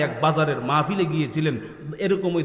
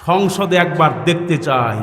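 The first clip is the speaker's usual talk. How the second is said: slogan prompt; 6 dB louder, slower than usual. Real, not acted. Repeats slogan for the crowd.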